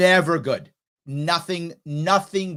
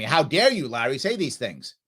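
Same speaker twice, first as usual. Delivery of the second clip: mock outrage; 4 semitones lower than usual. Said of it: "Angry at me".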